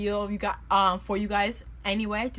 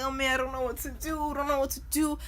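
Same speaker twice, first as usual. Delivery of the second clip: higher-pitched mock panic; retold freaking out; 5 semitones higher than usual. Storyteller recalling seeing the dog still there, mildly panicked. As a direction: act out fretting, pitch raised. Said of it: "I'm out here freaking out".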